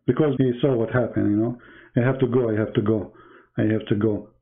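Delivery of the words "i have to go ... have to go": mimicking caller. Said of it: "he had to go now".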